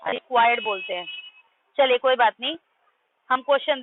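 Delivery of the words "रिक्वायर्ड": रिक्वायर्ड said low and clearly, stress on the first part; teacher models रिक्वायर्ड; correct pronunciation. Shown as a demonstration. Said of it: "pronunciation बड़ी गड़बड़ है". ("रिक्वायर्ड" साफ़ और नीचे स्वर में)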